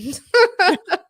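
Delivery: a loud high laugh at the irony. Real, not acted. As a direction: laugh at how it turned out.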